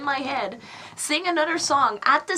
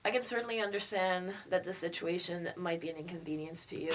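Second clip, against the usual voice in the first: customer service voice; 7 semitones lower than usual. Pretend. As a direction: apologise like a scripted support rep. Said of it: "let me do my customer service voice".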